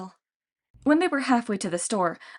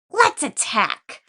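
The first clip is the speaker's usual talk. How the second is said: louder, high, slow monster voice; eager Cyclops; 5 semitones higher, 5 dB louder, much slower than usual. A narrator's reading. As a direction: push the others to charge. Lady Cyclops urges attack.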